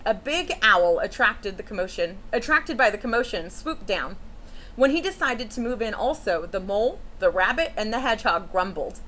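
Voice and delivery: put-on gentle read-aloud for children; storybook reading. A narrator's reading. Teacher reading a picture book to children, storytelling voice. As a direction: read it like story time to a class.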